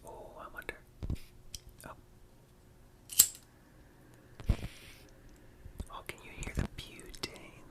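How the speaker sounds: breathy intimate ASMR whisper. Real, not acted.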